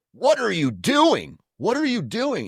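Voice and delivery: mock-panicked old woman crying out; grandma panicking. Grandma to grandpa firing rifle, high alarmed voice. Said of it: "she's like".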